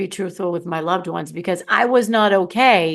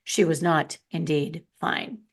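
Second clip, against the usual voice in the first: soft, low, slow narrator murmur; a quiet grave narrator at her shoulder; 4 semitones lower, 5 dB quieter than usual. Retold or imitated. Inner narrator voice whispering on her shoulder, low. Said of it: "someone on my shoulder saying".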